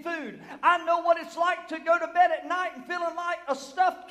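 loud, rising preacher's cry; preaching at full force. Acted. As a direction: preach it hard to the church. Preaching Paul's words at full force.

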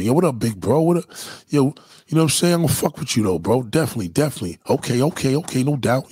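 quick, casual street greeting patter; New York fast talk. Shown as a demonstration. New Yorker greeting a stranger as big bro, fast talk. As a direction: rattle it off like easy New York slang. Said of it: "It's that speed talk, that fast talk".

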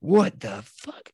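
imitated road rage, drawn-out and high-pitched; slow, outraged driver's yell, mimicked; losing his mind. Retelling an Uber driver cut off in Boston, losing his mind. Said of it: "he loses his mind".

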